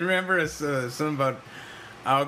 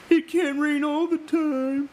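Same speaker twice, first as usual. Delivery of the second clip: slow, higher, laughing mock-melodrama; mock tragic quote; 13 semitones higher, slower than usual. Joking with friends about the Crow, laughing mock drama. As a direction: ham up the famous sad line.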